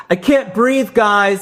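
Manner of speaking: high-pitched imitation of a scolding; mock scolding. Winded jogger to protesters, mock scolding. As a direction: scold them like naughty children, played for laughs. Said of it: "The way you'd scold children".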